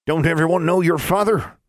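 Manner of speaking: high, raspy hill granny; old granny voice. A narrator's reading. Another granny.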